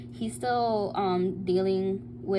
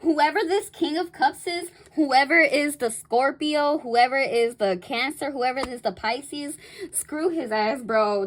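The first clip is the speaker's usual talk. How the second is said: loud, high and emphatic; rally the listener against him; fired-up dismissal; 4 semitones higher, 5 dB louder than usual. Real, not acted. Dismissing the other man.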